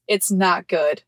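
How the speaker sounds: retold deadpan verdict; plain, matter-of-fact quote. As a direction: say it dead serious, imitating her. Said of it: "Dead ass, like, just".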